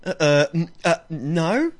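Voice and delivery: mock-guilty stammer; halting fake innocence; guilty denial. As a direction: stumble through a hesitant, unconvincing no. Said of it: "You sound so guilty too".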